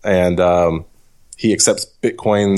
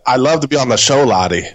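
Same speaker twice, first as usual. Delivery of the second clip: hammed-up, higher-pitched botched New Zealand accent; bad New Zealand accent; 5 semitones higher than usual. Host imitating an Australian farmer guest, bad New Zealand accent. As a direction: attempt a New Zealand accent, landing nearer Scottish. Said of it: "to get that accent out".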